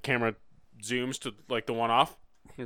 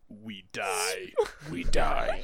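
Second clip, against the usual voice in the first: mock deadpan; 4 semitones lower, much slower than usual. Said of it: "he goes".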